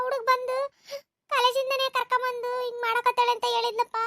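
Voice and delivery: a mother sobbing out the bad news; tearful mother. Mother tells her husband about their daughter's affair, tearful. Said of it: "ಯಾಕವ್ವ ನಿಮ್ಮವ್ವ ಅಳಕತ್ತಾಳೆ?".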